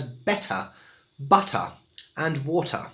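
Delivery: crisp T in "better", "butter", "water"; careful RP with fully sounded Ts; received pronunciation. Shown as a demonstration. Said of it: "in received pronunciation".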